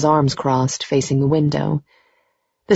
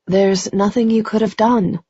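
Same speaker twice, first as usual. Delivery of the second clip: stunned; 5 semitones higher than usual. A narrator's reading. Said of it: "stunned, but trying to hold it together".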